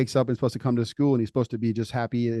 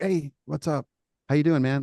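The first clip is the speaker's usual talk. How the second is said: bright, upbeat hey, higher pitched; cheery greeting; 4 semitones higher than usual. Acted. Friend bounces up and greets the limping kid, upbeat. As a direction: greet him like nothing's wrong, all cheer.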